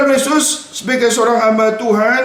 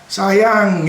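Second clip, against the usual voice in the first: sweet pet name; 3 semitones lower than usual. Retold or imitated. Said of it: "Kalau biasanya".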